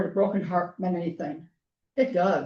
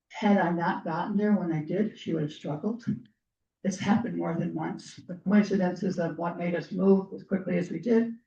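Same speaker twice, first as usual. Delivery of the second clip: usual speaking voice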